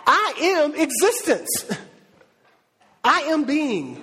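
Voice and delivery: lightly voiced God, high and pressing, a bit rushed; a hint of a grand, amused God; God's voice. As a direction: play God setting the record straight, then slowing on I am being. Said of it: "He's like".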